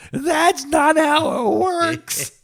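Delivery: put-on slow, high Jewish lady accent. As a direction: drawl it like a Jewish grandmother. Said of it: "in your best Jewish lady accent".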